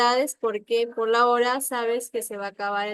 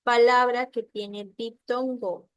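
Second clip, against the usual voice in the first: slow reading; 5 dB louder than usual. Shown as a demonstration. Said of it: "marca la respuesta correcta".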